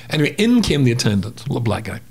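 usual speaking voice

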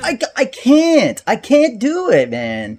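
high strained frustration; raging gamer. Real, not acted. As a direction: whine it out in despair. Gamer failing repeatedly.

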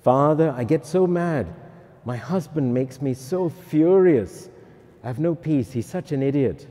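a touch of exasperated wife in confession; complaining penitent. Acted. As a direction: grumble to the priest, mock-indignant. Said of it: "confess other people's sins".

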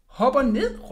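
high-pitched call back; called-out reply. A narrator's reading. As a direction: call it up to someone overhead. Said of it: "råbte jeg".

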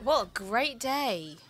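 slow, unintentionally sarcastic delivery; sarcastic-sounding. Real, not acted. Co-player reacting to a good loot find, sarcastic-sounding. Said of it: "Is that so sarcastic?".

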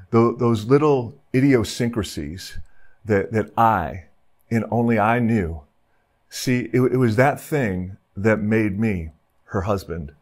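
lightly acted widower remembering his wife; tender confession.

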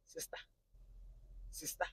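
hushed, halting calls to a sister; repeated plea. Retold or imitated. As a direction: act out softly calling her, pausing between. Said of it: "She just kept saying".

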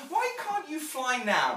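put-on high, loud, slow child's question. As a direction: ask like a puzzled little girl. Child Jane questions her mother.

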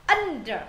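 Under with the weight on "Un"; stress on first syllable. Shown as a demonstration. Teacher showing students the stress, Under led by its first syllable. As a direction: lean on "Un", let "der" drop in Under. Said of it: "âm ân là âm một".

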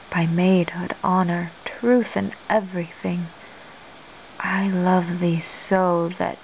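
understated love declaration in measured verse; Shakespeare monologue. Acted. Olivia reflecting on her admiration for Cesario, understated dramatic recitation.

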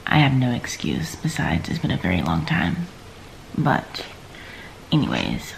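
groggy morning voice; barely awake, first words of the day; just woke up. Real, not acted. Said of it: "if my voice sounds weird, it's 'cause I just woke up".

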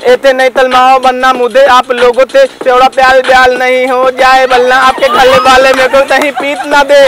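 a comic lisping rapper chatting up madam. Acted. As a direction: lisp every s and r like a cute totla guy. (तोतला रैपर)

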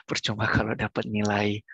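whisper. Shown as a demonstration. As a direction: drop to a breathy whisper. Repeats line, then whispers it.

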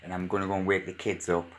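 hushed late-night vlog voice; nervous night vlog whisper. Real, not acted. 3 AM, kids still asleep.

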